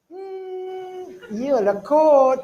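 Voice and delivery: drawn-out unsure hmm, then a slow reluctant answer; noncommittal shrug. Retold or imitated. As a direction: mimic a half-hearted evasive reply.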